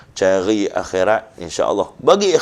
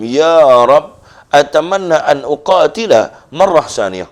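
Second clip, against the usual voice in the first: pleading prayer; 5 semitones higher, 5 dB louder, slower than usual. Acted. Martyr pleads to God.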